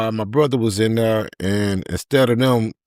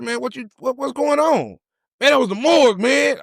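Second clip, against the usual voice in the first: panicked. Retold or imitated. Panicked exchange after morgue call.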